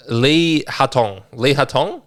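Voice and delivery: put-on slow, slight Asian accent on the name Lee Hatong; drawn-out Lee Hatong with an accidental Asian accent; a hint of an Asian accent; unintended Asian accent. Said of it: "I didn't mean to do an Asian accent".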